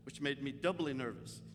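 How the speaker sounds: soft, low confessional telling; subdued confiding. Real, not acted. Pastor confiding his grief to the congregation, softly. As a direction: open up quietly to the folks.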